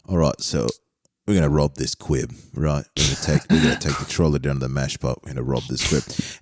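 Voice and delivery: put-on a Horner plotting a heist, in a low street accent; mock Christian Horner impression. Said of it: "here's my Christian Horner".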